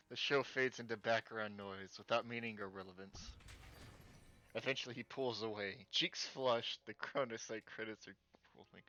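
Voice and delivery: projected read-aloud of game text; lightly performed romance narration; story narration. A narrator's reading. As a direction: read the scene out to viewers. Reads game's romance text aloud.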